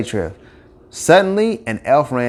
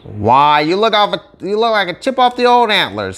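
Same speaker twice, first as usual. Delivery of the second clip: lightly higher, proud fatherly voice; proud dad; 9 semitones higher, 3 dB louder than usual. Acted. Donner praising his son Rudolph, lightly voiced proud father. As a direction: beam at your son. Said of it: "he said to his son".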